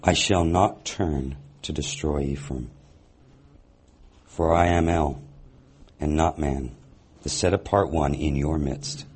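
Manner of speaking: measured, deliberate Bible reading with long pauses; scripture reading. Acted. Teacher reading the prophet's words to the congregation, measured and solemn.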